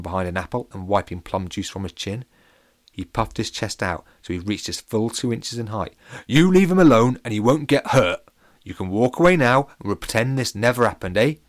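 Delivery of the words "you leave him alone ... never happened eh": brave, foolish. Acted. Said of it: "Pete said bravely and perhaps a little foolishly".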